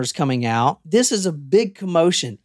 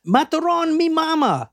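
retold scream; 10 semitones higher than usual. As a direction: imitate a desperate scream without much volume. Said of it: "and he screams".

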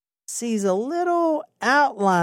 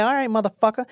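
higher, pumped-up retelling; mock tough cops; 4 semitones higher, faster than usual. Police answering the suspect's refusal, mock tough and pumped-up. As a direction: read the report like cops spoiling for a fight. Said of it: "So they're like".

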